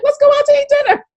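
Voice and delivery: high, fast mock husband voice; imitating husband. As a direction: play the husband suggesting dinner. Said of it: "He's like".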